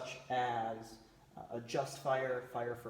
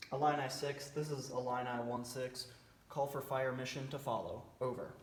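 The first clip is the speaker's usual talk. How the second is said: radio call. Shown as a demonstration. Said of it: "here's what the transmission might sound like".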